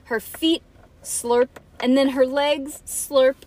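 put-on dramatic read-aloud for children; story narration. A narrator's reading.

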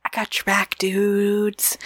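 whispered reassurance. Real, not acted. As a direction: breathe it like a secret.

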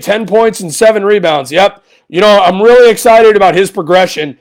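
sarcastic pretend optimism; lightly mocking a happy post-game spin; mock cheerful. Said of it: "you want me to sit here and say".

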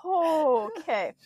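breathy whispered okay. Real, not acted. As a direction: whisper it to settle. Whispered calm-down.

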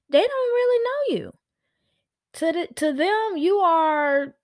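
sudden high whisper, breathy and secret. Real, not acted. Secret told to parents.

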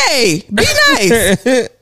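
slow, lightly voiced small child; kid voice. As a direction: imitate a toddler scolding. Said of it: "He said".

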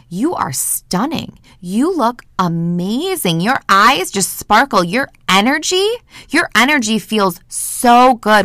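slow, adoring praise with lingering words; gushing compliment. Acted. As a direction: gush slowly, savouring every compliment. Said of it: "So if I tell you".

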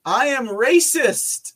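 high, loud, stretched-out confession; loud self-mocking exclamation. Real, not acted. Host owns up to a wrong guess, loud amused exclamation. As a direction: blurt it out high and slow, amused at yourself.

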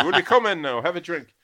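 high, loud Irish landlady voice; landlady's voice. Retold or imitated. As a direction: bark it out like a brusque old landlady.

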